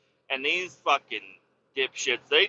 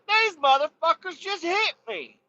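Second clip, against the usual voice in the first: high, lightly voiced shaken driver; imitating dazed driver; 13 semitones higher than usual. The victim telling him what happened, high shaken imitation. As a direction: play the victim complaining. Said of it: "He's like".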